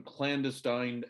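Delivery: "clandestine" with the emphasis on the wrong syllable; mis-stressed word. Acted. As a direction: put odd stress on "clandestine", ending like "stine" in "Einstein". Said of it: "put the emphasis on the wrong syllable".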